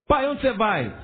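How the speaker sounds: small child asking dad where he's going, lightly voiced. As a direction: ask like an eager small child.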